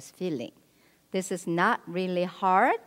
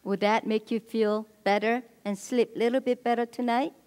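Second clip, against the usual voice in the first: validating, understanding. Retold or imitated. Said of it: "When he said".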